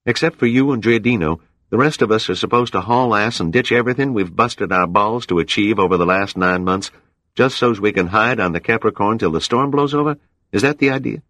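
indignant crewman protesting the order; angry. A narrator's reading. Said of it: "his hawk-like features intent and angry".

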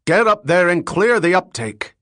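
high, loud barked command; shouted. Acted. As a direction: bark the order at the crew. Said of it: "He shouted to the Hungarians".

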